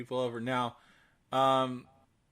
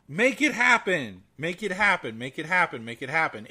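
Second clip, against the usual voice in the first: urgent repeated plea; 3 dB louder than usual. Real, not acted. Urging listeners to donate.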